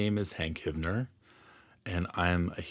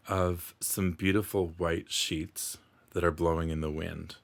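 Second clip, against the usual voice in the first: unhurried meditation guide, long pauses between phrases; guided meditation. Acted. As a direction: gently lead the listener through calming imagery.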